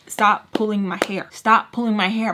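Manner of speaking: firm, retold warning; pissed off. Woman to Sugar mid-fight, firmly pissed off. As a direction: spell out the order with mounting irritation. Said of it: "I'm just, like, so pissed off".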